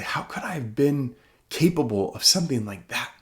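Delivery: whisper. Retold or imitated. Horrified self-question.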